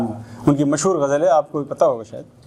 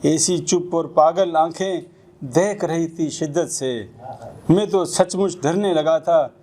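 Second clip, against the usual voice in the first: Urdu narrative poem recited to an audience; measured spoken verse; poetry recitation. Acted.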